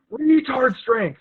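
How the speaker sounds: slow drawn-out call; coach's call. Retold or imitated. Coach calls to his fighter, slow drawn call. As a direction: stretch each word out. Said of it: "coach goes".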